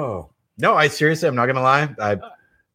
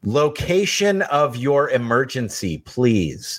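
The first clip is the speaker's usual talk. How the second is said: slow, flat dispatcher voice; bored operator; much slower than usual. Acted. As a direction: drag it out like a jaded operator. Operator in 911 improv.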